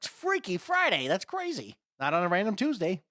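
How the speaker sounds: high, loud hammed-up astonishment; put-on goofy excitement; mock amazement. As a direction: stretch the first words high, as if mind-blown. Acts out co-host's excited reaction.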